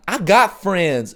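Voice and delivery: slow, defensive retort in a listener's voice; a hint of indignant church member; mock defensive listener. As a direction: play the touchy congregant insisting. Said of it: "Don't take this out".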